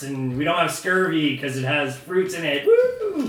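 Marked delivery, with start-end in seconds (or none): 2.7-3.3 high whooping cheer. Real, not acted. Cheering the fruit in the beer, high whoop. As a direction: let out a high woo.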